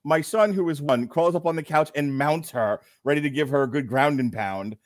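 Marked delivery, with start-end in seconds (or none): none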